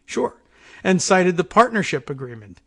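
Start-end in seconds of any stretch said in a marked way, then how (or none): 0.1-0.4 sarcastic. Real, not acted. Sarcastic reply to quoted statement.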